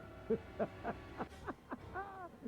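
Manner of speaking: high villainous cackle; evil laugh. Acted. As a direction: cackle with cruel glee.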